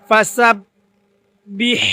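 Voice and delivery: ফাসাব্বিহ slow, with a breathy final হ; Quran recitation. Shown as a demonstration. Teacher recites for students: ফাসাব্বিহ slow, breathy হ at end. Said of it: "খেয়াল করতে হবে".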